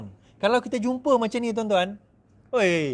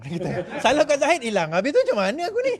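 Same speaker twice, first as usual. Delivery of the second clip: mock whining; 6 semitones higher than usual.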